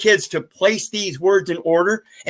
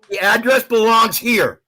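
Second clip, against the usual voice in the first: yelling. Real, not acted. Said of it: "Why are you yelling?".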